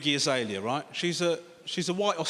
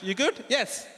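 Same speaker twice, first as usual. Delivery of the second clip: Sri Lankan uncle; 6 semitones higher, slower than usual. Retold or imitated. Same uncle exchange, acted.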